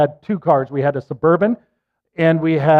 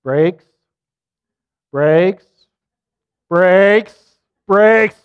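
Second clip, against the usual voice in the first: retold yelling; 2 semitones higher, 5 dB louder, much slower than usual. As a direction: call it out, getting more urgent each time. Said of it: "And I'm saying".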